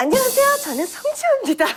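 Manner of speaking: very high, overly feminine, sing-song, put-on girly voice. Showing the third voice that comes out when trying a voice: very feminine put-on voice. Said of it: "약간 이런 식으로".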